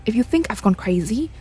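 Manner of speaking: lightly acted game dialogue, earnest and dramatic; character dialogue. Player voicing the characters' conversation about the ghost, lightly dramatic. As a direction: voice the characters as you read the story scenes.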